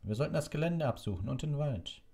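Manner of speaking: high, irritated urging; grumpy snapping. A narrator's reading. Executioner demanding a search of the grounds, grumpy. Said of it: "raunzte der Henker".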